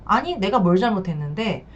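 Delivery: a light brazen "what did I do wrong"; shameless comeback. Shown as a demonstration. To a betrayed spouse, mildly brazen defiance. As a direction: show how to push back without guilt. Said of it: "이렇게 좀 뻔뻔해지셔야 돼요".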